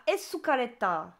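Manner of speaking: English loanword with a Japanese accent; accent anglais-japonais. Real, not acted. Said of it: "Cet accent anglais-japonais". (accent japonais sur un mot anglais)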